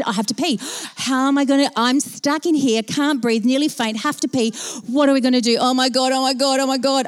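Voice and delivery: mild mock panic, words piling up; freaking out. Stuck passenger listing her troubles, acted mild panic. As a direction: pile up the worries in rising alarm. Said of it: "I'm freaking out".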